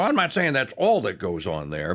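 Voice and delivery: ordinary talk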